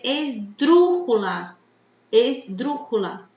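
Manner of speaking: "esdrújula" slowly, leaning hard on DRÚ; stress on antepenultimate syllable. Shown as a demonstration. Teacher names the word class, stressing DRÚ in "esdrújula". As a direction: stretch esDRÚjula on its third-last syllable. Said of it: "la sílaba tónica es la antepenúltima".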